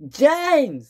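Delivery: high, loud yell of the name; screamed. Acted. Thomas screaming back at James, loud. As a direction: shout James down sharply. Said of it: "screamed Thomas".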